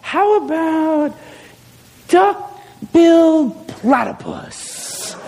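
very slow, drawn-out invention; pondering Adam. Acted. Adam naming a new animal, slow pondering. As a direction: make the name up slowly, syllable by syllable. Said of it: "he's kinda looking at it, and he's like".

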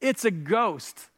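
slow, mildly dramatised outcry; crying out in fear. Acted. Preacher reading the disciples' terrified reaction, mildly alarmed outcry. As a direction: read it as a restrained cry of alarm. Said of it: "they cried out".

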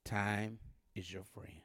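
slow whisper of time is your friend. Shown as a demonstration. Preacher turning to one side of the room, whispered. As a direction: hush it to this side. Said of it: "I'm gonna say it on this side".

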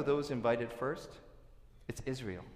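ordinary talk

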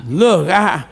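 ordinary talk, nothing marked

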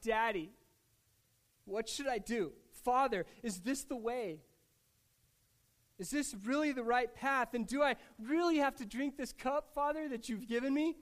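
mildly impassioned questioning of a father; calling out pleadingly. Retold or imitated. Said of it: "and calling out".

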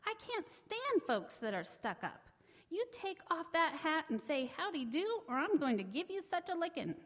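high, heated scolding; angry threat. Acted. Brer Rabbit threatens the silent tar baby, angry and high. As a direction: tell the tar baby off hotly. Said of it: "losing his temper".

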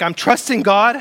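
mildly pleading inner voice; voicing a worried believer. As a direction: speak as the churchgoer who feels overwhelmed. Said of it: "where you feel like".

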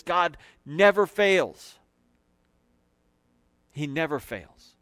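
never leaned on, slow; stress on never. Acted. Preacher promises God never fails, stress on never. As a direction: press the word never. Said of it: "I promise you this".

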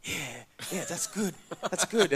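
laughing through the words, half stunned; shocked laughter. Retold or imitated. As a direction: giggle out the yeahs in disbelief. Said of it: "And he was like".

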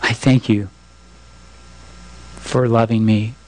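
a pastor's closing prayer. Real, not acted. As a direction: pray it simply and humbly.

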